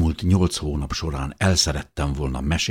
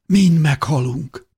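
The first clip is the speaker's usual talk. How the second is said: high, slow, louder wail; panicked despair; 11 semitones higher, 5 dB louder, slower than usual. A narrator's reading. Beloved fears they will all die, despairing. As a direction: draw out the dread, pitched way up. Terrified beloved foresees death.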